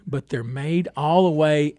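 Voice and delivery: normal talking voice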